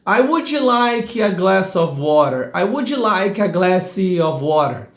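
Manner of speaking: slow "would" as "woodgy", vowels added after consonants; Brazilian restaurant English. Shown as a demonstration. Teacher imitating diners ordering, "would" with extra i. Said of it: "percebo muito nos restaurantes".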